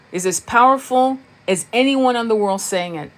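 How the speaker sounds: ordinary talk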